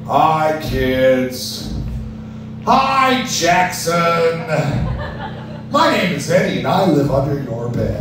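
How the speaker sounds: lightly voiced creepy monster; a hint of the monster under the bed; creepy playful under bed whisper. Eddie creature introduces itself.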